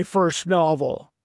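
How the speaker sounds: first novel drawn out slowly; slowed-down dread; slow dawning. Real, not acted. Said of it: "realized I have to finish".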